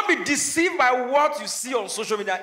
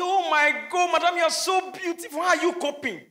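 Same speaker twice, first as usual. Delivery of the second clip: fawning admirers; 5 semitones higher than usual. Retold or imitated. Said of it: "people say".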